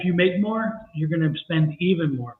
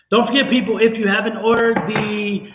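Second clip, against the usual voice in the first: announcing plug; 4 semitones higher, 4 dB louder than usual. Real, not acted.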